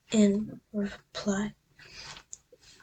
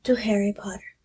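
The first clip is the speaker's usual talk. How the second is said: hushed voice. Acted. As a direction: hush it like a secret toast. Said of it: "saying in hushed voices".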